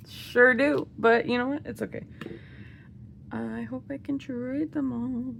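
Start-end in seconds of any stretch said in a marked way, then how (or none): 0.1-0.9 rueful self-mockery. Real, not acted. Repeat of the rueful answer.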